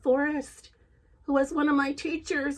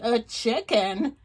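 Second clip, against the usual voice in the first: bewildered; 4 dB louder, slower than usual. Acted.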